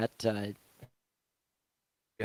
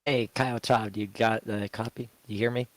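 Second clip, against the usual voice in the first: sick voice. Real, not acted. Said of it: "deal with my sick voice".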